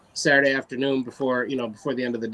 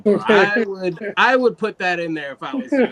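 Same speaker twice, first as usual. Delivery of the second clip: raised, louder insistent push; emphatic retort; 5 semitones higher, 5 dB louder than usual. Retold or imitated. To the judge, a raised insistent push. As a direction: lean in and tell him he's making a mistake. Telling the judge he's wrong.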